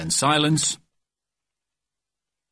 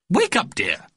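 high, singsong motherly nudge; fussy mother's high wake-up; mother waking child; 8 semitones higher than usual. Acted. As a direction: rouse him sweetly in a raised pitch. Mother waking her son.

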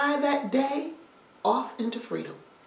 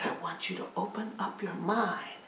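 put-on hushed old man; 4 semitones lower, 7 dB quieter than usual. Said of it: "And he said".

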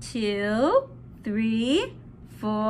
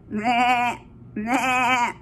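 bleating animal noise; giraffe bleat; 5 semitones lower than usual. Acted.

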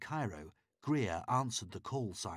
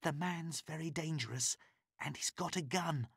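much higher, urgent woman's voice; higher pleading woman; pleading captive woman; 8 semitones higher than usual. A narrator's reading. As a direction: beg for help through the door. Christine warns of gun.

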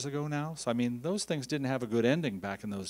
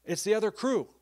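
excited; 9 semitones higher, 4 dB louder than usual. Retold or imitated. Retold shout at ambulance door.

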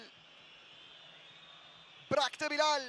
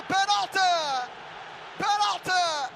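excited penalty call; 2 semitones higher, much slower than usual. Real, not acted. Penalty given.

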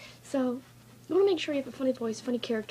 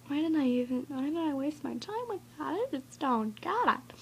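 mock complaint with swooping higher pitch; disappointed viewer; 4 semitones higher than usual. Imitating a viewer who clicks out of the video, mock regret.

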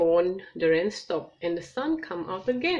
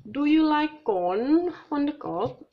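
cheerful mum voice; 7 semitones higher, 3 dB louder than usual. Acted. Missus Kangaroo offers corn.

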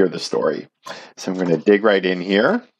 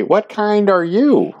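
curious question; 8 semitones higher, slower than usual. Acted. Bunnies question the newcomer.

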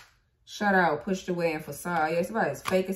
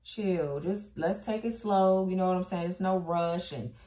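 imitating laid-back stalling; slower than usual. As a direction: play someone dragging out the chill. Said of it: "I can see somebody saying that now".

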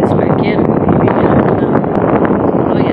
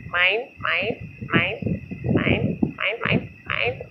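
seagull mine mine; 10 dB quieter, much slower than usual. Pretend. Seagulls spotted, gull squawk quote.

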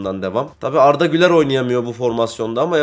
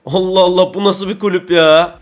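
higher and louder, fed up; exasperated outburst; 4 semitones higher, 5 dB louder than usual. Real, not acted. Gamer ranting at Aston Villa to viewers, exasperated. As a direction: throw up your hands at the club.

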